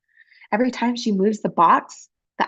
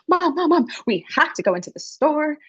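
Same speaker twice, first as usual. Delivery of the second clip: put-on higher, eager child pleading; a child bursting to go in; excited little girl; 6 semitones higher than usual. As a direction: tug at mom with excitement. Excited girl tugs her mother.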